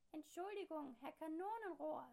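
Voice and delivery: high, loud triumphant apology; machine voice. A narrator's reading. Machine mocking the neighbour, high and loud. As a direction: belt out the wrong name. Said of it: "sagt die Sprechmaschine".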